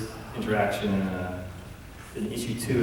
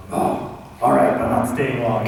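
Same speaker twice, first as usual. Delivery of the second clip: Bruce Wayne; 4 dB louder than usual. Acted. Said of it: "then Bruce is like".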